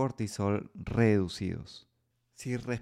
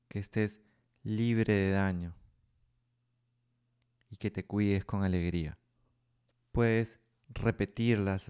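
guided meditation. Acted. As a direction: guide them gently into stillness. Leads a loving kindness meditation.

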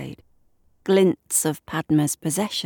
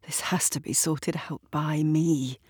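determined whisper; 4 dB quieter than usual. Acted. Resolved, quiet vow to herself.

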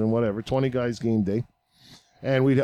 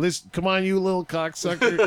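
retold angry yell; 6 semitones higher than usual. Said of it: "and fucking yelling".

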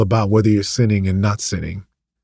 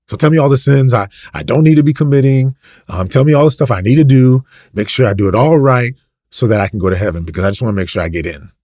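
mock demanding believer; 3 semitones higher, 4 dB louder than usual. Voicing a ticket-seeking believer.

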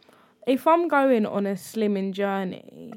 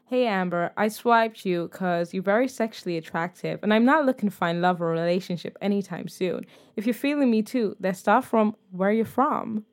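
put-on American accent; 2 semitones lower, 3 dB quieter than usual. Reading out a guy's blunt dating message, American accent. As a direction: read it as an American suitor's chat-up. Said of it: "I'm doing an American accent".

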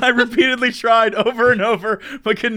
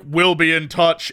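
dragon voice; 4 semitones lower, slower than usual. Retold or imitated. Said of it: "in a dragon voice".

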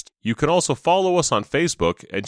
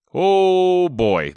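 excited; 6 semitones higher, 5 dB louder than usual. Real, not acted. Excited intro after sick aside.

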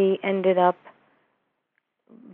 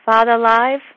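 healer's broken-English question; 3 semitones higher, 7 dB louder than usual. Retold or imitated. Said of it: "she said".

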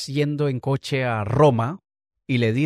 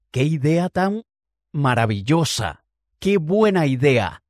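slow, drawn-out gushing praise; acted enthusiasm; 2 semitones higher, 4 dB louder, slower than usual. Pilot humouring the passenger's plan to go today, exaggerated slow enthusiasm. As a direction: gush over the idea, stretching each word.

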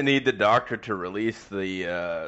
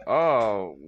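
shocked onlookers. Retold or imitated. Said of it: "people are like".

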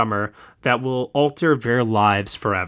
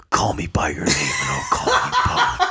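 exaggerated deep, husky pillow-talk whisper; Armie Hammer; 9 semitones lower than usual. Podcaster imitating the star whispering in bed, hammed-up deep voice. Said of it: "got such a deep voice, so when he's, like, whispering him".

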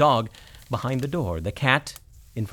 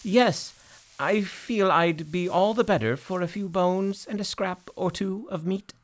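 greyhound voice; 8 semitones higher than usual. Acted. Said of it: "the greyhound added".

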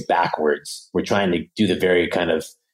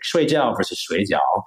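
two takes of "shui jiao" with different tones; contrasting Chinese intonation. Shown as a demonstration. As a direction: say "shui jiao" twice, changing only the melody. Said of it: "the melody and the intonation".

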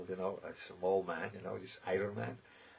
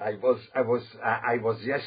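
puffed-up self; 7 dB louder than usual. Retold or imitated. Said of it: "he has to blow himself up".

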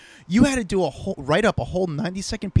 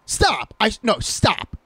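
lightly imitated friend, half laughing stop; mock pleading disbelief; 3 semitones higher than usual. Retelling how his co-host refused to believe him, half laughing. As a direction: beg him to quit joking, laughing. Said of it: "Dax goes".

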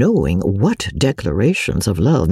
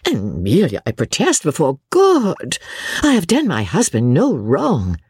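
earnest protest; 5 semitones higher than usual. Acted. Rebecca protesting innocence.

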